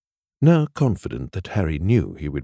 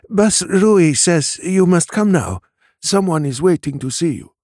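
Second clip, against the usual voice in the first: panting urgent message; 11 semitones higher, 6 dB louder than usual. A narrator's reading. Concerned Tembela summoning her boss, panting=. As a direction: deliver the summons while catching your breath. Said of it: "she panted".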